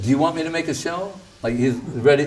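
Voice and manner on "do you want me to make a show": fast, light and playful; quick teasing offer. Retold or imitated. Guru teasing the smart devotee, quick and playful. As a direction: rattle it off with a teasing shrug. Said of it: "Gurudev said".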